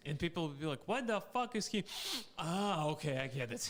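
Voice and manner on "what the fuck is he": high-pitched shocked outburst. Retold or imitated. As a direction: gasp it out in disbelief. Acted quote of shocked people.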